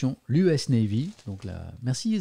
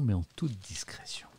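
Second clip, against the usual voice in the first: softer, whispered ending; 4 semitones lower, 7 dB quieter than usual. Acted. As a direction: breathe it like a secret. Reading conclusion conspiratorially.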